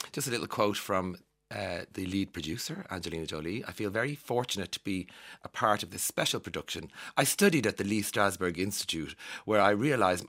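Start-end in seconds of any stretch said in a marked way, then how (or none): 3.6-10.3 lightly put-on posh accent. Radio host reading Angelina Jolie's producer statement in a posh accent. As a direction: read it with a touch of posh. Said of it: "I'm giving her a posh accent".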